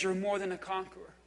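quick, low, soft reassurance; voice of God. Acted. Preacher voices God affirming the listener, soft and low. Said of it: "The voice of God says".

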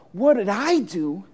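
questioning rise, held back; mildly stunned little girl asking back; girl's startled reply. A narrator's reading. Girl turning the gardener's question back, still contained.

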